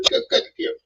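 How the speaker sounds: high, breaking fake sob begging them to cut; hammed-up tearful plea, voice cracking way up; comic overblown weepy cry; mock crying. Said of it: "you know I get emotional".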